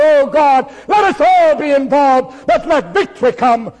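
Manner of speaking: loud, pleading prayer cry; crying out to God. Retold or imitated. Kneeling preacher cries out to God in prayer, loud. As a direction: call out to God from your knees. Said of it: "I went to my knees and cried out".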